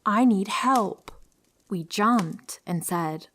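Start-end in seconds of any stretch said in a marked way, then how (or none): 0.0-1.1 higher, louder, drawn-out plea; narrated yell. A narrator's reading. Lady yelling at women who won't open the car, restrained yell. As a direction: yell it slowly, within a storyteller's restraint. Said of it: "started yelling".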